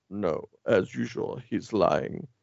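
low, slow Batman voice. Acted. Podcaster retelling Batman exposing a lie, low Batman voice. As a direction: drop low and draw it out like Batman. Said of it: "a Batman voice says".

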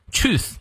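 "truth" ending in a th with tongue between the teeth; slow, careful "truth", tongue bitten lightly for th. Shown as a demonstration. Teacher demonstrating the sound to learners, careful th in "truth". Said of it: "truth咬舌".

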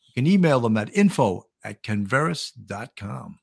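measured sponsor read; announcer-style plug. Acted. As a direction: read it out like a radio spot. Reads the sponsor spot.

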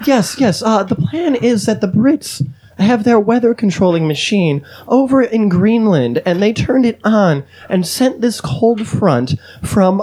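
a hint of a British woman explaining her theory; British female accent. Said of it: "I just wanted a British female accent".

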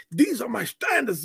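proud, high-nosed insistence; haughty. Retold or imitated. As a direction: declare it smugly. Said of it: "you're going like".

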